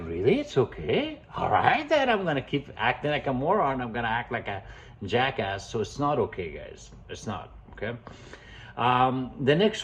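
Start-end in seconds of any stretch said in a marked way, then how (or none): 0.0-5.7 lightly voiced cheeky dog; a hint of a smug dog talking back; dog's voice. Dog answering owner's petting, lightly voiced cheeky dog. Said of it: "Your dog like".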